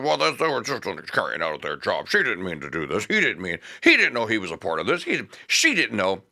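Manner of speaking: low, soft whiny mock voice of excuse-makers; sarcastic mimicry of officials. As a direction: sneer their lame excuse, low and soft.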